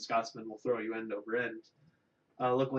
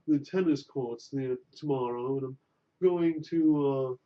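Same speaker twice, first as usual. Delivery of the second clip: posh snob voice. Pretend. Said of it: "Prop company".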